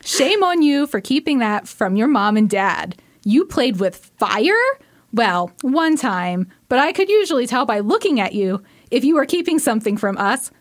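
lightly voiced scolding mom; a hint of a mother teasing; mom impression. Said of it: "try to do an impression of my mom".

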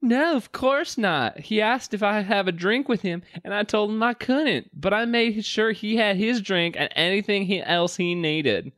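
very high put-on waitress voice; hammed-up high-pitched denial; adamant waitress. Waitress denies refusing the client service, high adamant voice. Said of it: "She shook her head adamantly".

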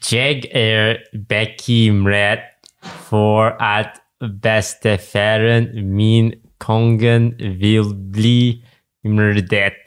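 put-on slow, careful Norwegian accent reading the line. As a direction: read it out like a native Norwegian, taking your time. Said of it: "I try to put on my best Norwegian voice".

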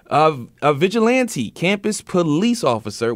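measured news-story read. Real, not acted.

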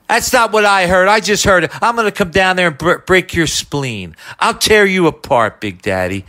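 hammed-up menace from an angry friend; Pat Croce impression. Prank caller threatening the host, hammed-up menace. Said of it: "And I start doing Croce".

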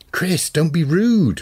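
slow, pointed telling-off; snapping sister. A narrator's reading. Sister scolding her rude brother, sharply. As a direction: scold him, leaning on each word. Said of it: "Rose snapped".

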